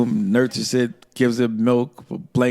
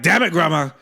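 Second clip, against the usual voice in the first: mock pained protest; 6 semitones higher, faster than usual. Kid yelping at grandma hitting the same spot, rising outrage. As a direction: complain that she hit the same spot.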